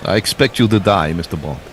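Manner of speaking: mock Bond-villain Russian accent. Commentator playing villain to a spy, Russian accent. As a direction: do a put-on Russian villain, falling away at the end. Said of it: "completely unintelligible".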